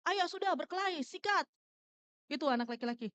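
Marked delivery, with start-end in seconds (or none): 0.1-1.5 higher-pitched imitation of boys egging on a fight; mock cheer, urging them into it; retold rowdy chant, lightly acted. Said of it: "semua jadi tim pesorak".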